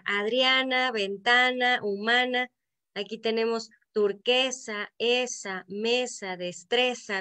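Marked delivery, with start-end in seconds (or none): 0.0-2.5 "Adriana, ventana, humana" in even beats, the accented A held; stressed rhyme endings. Shown as a demonstration. Teacher demonstrates consonant rhyme, stressing the "-ana" in "Adriana, ventana, humana". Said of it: "de donde se acentúa".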